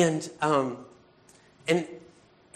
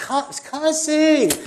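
pitched up and loud on cussing; high loud exclaim; 11 semitones higher, 6 dB louder, much slower than usual. Real, not acted. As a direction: burst out high with the word cussing. Preacher peaks describing Peter cussing.

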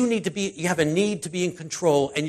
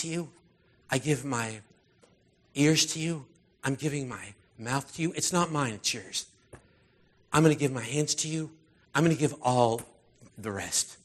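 praying to God; 3 semitones lower, 4 dB quieter than usual. Acted. Speaker models a surrendering prayer to God, softly earnest. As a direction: quietly hand yourself over, phrase by phrase. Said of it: "you can just say to God".

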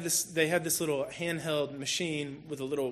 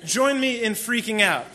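louder, higher, pleading rant; mock exasperated plea; 4 semitones higher, 6 dB louder than usual. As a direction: beg him to join the freak-out, half joking. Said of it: "I'm like".

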